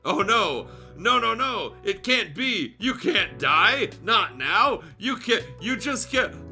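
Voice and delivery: laughing through fake grief.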